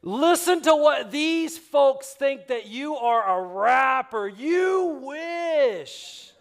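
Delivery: high, loud, slow and amused; wife laughing at the neighbor's rapper guess on the phone; mocking laughter. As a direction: tease him through a laugh.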